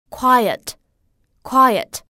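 quiet drawn out with the short schwa audible; slow quiet. Shown as a demonstration. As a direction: carefully model quiet as qui-et. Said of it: "后面有一个短元音呃的发音". (清楚读出quiet的短元音)

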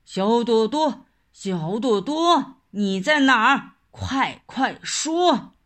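loud coaxing call; tiger calling out. Acted.

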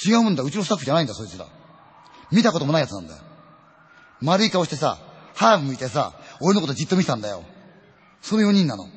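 loud, rising storyteller's cry of dread; horror climax shout. Acted. Storyteller to audience, revealing the strangers, loud shuddering cry. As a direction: hit the reveal hard, the faces weren't his crew.

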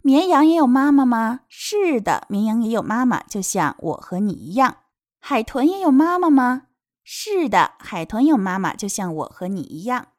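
lively question, then reassuring answer; storybook translation reading. Acted. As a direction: read question and answer for small children. Reads translation to children. (给孩子朗读绘本问答)

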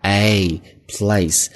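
the A of place as a full gliding diphthong; carefully modelled vowel in place. Shown as a demonstration. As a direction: open "place" out wide on its vowel. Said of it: "A是一个双元音".

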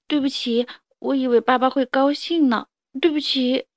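lightly voiced apologetic kid; a kid saying sorry to dad; sorry little child. 小恐龙道歉. (小孩子委屈地道歉)

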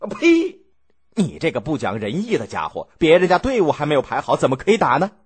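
scolding scoff. Acted. Duke Xiang scolds Mu Yi for urging an attack, angry and contemptuous. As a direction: spit out contempt at his advisor, then scold him. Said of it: "骂他说".

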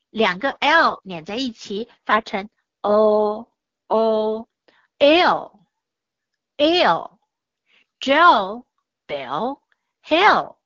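slow phonics model of L, L, Jill, Bill, Hill; ill sounds. Shown as a demonstration. Teacher models 'ill' sound for pupils, slowly and clearly. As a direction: say each 'Jill', 'Bill', 'Hill' slowly, ending on a dark L.

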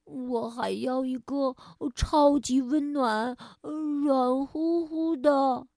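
put-on drowsy, half-asleep child voice; nodding off. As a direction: mumble it like a nodding-off kid. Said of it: "迷迷糊糊地说".

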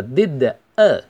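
DID A run together as "di-da"; linked words. Shown as a demonstration. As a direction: link the D of DID straight into A. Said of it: "可以连读成为did a". (DID A 连读)

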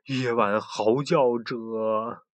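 slow, awed whisper of fear; gasp, then say it slowly; gasp of dread. Acted. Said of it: "朱迪倒吸了一口气".

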